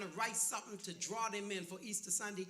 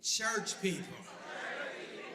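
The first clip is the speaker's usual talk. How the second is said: church people with attitude; 5 semitones lower than usual. Shown as a demonstration. Pastor coaching the crowd, sneering "Church people". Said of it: "say it with the attitude".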